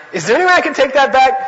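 high, fast, pleading; anxious plea. Retold or imitated. Remorseful student begging to take back his anger, high, fast and pleading. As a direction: blurt it out, desperate to undo it.

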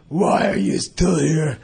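slow, drawn-out Lama question; lightly voiced old teacher, unhurried; Lama's voice. The Lama asking the student why he stays, slow. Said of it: "he'd say".

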